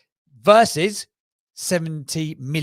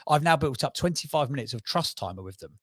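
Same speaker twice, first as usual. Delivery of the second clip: ordinary talk, nothing marked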